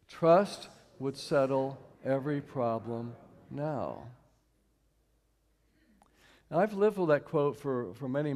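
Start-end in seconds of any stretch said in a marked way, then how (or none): 0.1-4.1 slow, weighty repetition; slow group recitation. Shown as a demonstration. Leading the audience through the quote again, slow and weighty. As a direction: lean into each word of the quote. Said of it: "Let's do it one more time".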